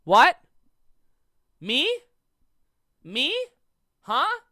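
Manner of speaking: high, loud startled what; mock a confused friend; imitating startled friend. Friend Jacob butting in, mock confused and startled. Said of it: "he went".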